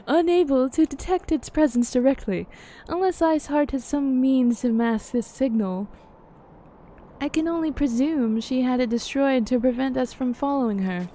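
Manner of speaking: measured, formal fantasy character reading; game dialogue read-aloud. Acted. Character weighing up the myth of Shiva, formal dialogue reading.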